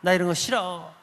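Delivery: imitated child's cross protest to mother; retold angry whining. Child protests to mother in church, retold angry whining. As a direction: act out a kid refusing to stay. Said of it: "엄마한테 막 화를 냅니다".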